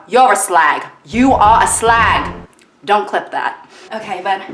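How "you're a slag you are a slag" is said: mock accusation. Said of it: "pointing in the crowd".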